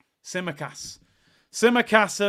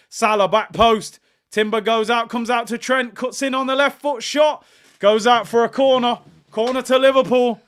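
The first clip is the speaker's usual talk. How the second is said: excited play-by-play; 6 semitones higher, 9 dB louder than usual. Real, not acted. Live play-by-play of attack.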